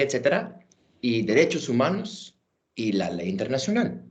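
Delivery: Spanish with a clear American accent; English speaker speaking careful Spanish. Real, not acted. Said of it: "pidiendo perdón por mi español".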